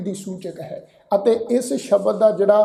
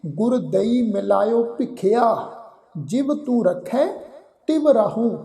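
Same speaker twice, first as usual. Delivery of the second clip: careful, measured Gurbani recitation, ਦਈ said clearly; slow scripture recitation. Shown as a demonstration. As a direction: recite it slowly and carefully, like teaching the verse. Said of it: "ਫਿਰ ਬਾਰਵੀਂ ਜਗ੍ਹਾ ਅਸੀਂ ਪਾਠ ਉਚਾਰਨ ਕਰਦੇ ਹਾਂ ਜੀ". (ਹੌਲੀ ਤੇ ਸਾਫ਼ ਗੁਰਬਾਣੀ ਪਾਠ)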